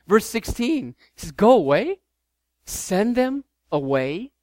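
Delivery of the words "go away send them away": an exasperated snap, then slowing down; fed up, send them off. Retold or imitated. Jesus, exasperated with his disciples, sends them off. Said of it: "you can hear the exasperation in Jesus' voice".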